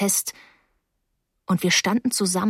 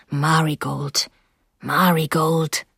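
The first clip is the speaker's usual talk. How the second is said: gentle reproach; 3 semitones lower, slower than usual. A narrator's reading. Terrapin sighs at crying Marigold.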